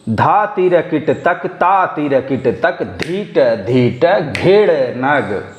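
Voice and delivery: slow, measured tabla syllables; slow bol recitation. Shown as a demonstration. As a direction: count the beats out through the syllables. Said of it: "फिर से पढ़ता हूँ एक से चार मात्रा तक".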